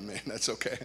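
preacher turning down the offer, hushed; soft refusal. Retold or imitated. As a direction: wave it off quietly. Declining the offer gently.

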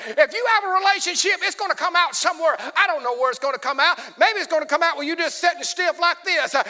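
ordinary talk

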